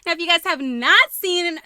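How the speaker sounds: ordinary talk, nothing marked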